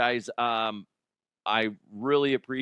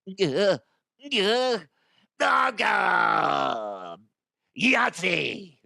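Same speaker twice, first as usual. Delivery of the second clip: excited random shout; 7 semitones higher, much slower than usual. Real, not acted. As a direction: blurt out Yahtzee. Random exclaimed words.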